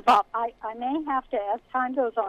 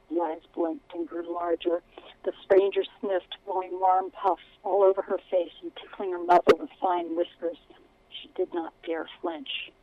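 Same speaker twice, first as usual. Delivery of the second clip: steady storytelling read; story narration; 2 semitones lower than usual. A narrator's reading. Author reads her book aloud.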